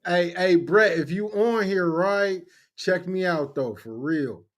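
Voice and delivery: imitated Inglewood street talk; Inglewood homeboy accent. Joining in the homeboy impression, Inglewood accent. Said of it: "from Inglewood".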